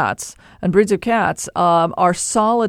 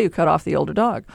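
ordinary delivery

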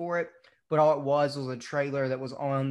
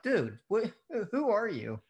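incredulous; 7 semitones higher than usual. Retold or imitated. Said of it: "I'm like".

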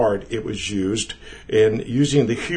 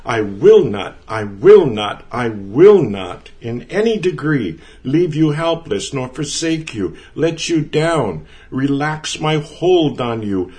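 louder, forceful repeated I will not; powerful preacher's emphasis, louder on every I will not; emphatic declaration; 2 semitones higher, 5 dB louder than usual. Shown as a demonstration. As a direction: proclaim each I will not harder, like an unbreakable vow. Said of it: "And this is the way it sounds".

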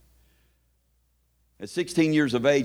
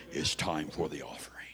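T L; 5 semitones lower than usual. Acted. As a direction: drop low and draw out each phrase. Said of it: "I'd do my T L impression".

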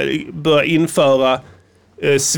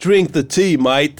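put-on English surfer-bro voice; casual mock surfer mate; douchey surfer dude; slower than usual. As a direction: egg them on as a douchey surfer. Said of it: "Det är såna här douchiga surfar".

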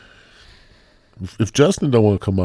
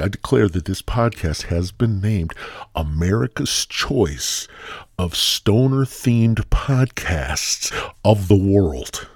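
mock proclamation. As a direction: declare it like an award, stretching the title. Mock award proclamation for own podcast.

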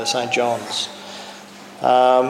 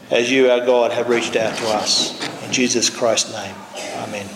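gentle warm blessing. Acted. Offering prayer after bowing heads.

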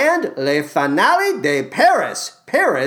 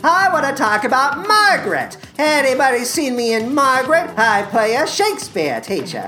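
a hammed-up, self-important star voice pitched higher; Matthew Broderick impression; 3 semitones higher than usual. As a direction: play a vain film star plugging coffee, lightly put on. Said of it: "for Matthew Broderick to do".

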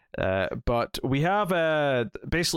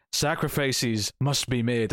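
slow, lightly acted villain pronouncement; solemn villain quote; much slower than usual. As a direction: draw it out like a grave decree. Quoting Black Adam's solemn line.

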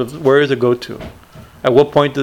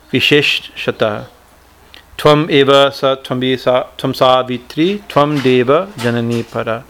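Sanskrit hymn recitation. Acted. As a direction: intone the verse like a prayer.

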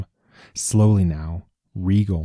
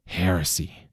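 shocked; 6 dB quieter than usual. A narrator's reading. King shocked at Brahm's words.

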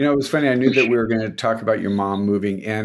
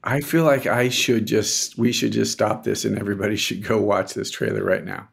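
sarcastic. Real, not acted. Co-host teasing a friend gushing over a movie trailer, sarcastic. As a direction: feign earnest urgency, tongue in cheek. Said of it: "I think you're being sarcastic".

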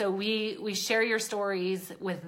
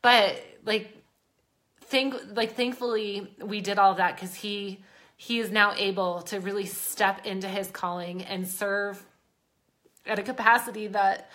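tearing up; 3 dB louder than usual. Real, not acted. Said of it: "I'm an ugly crier".

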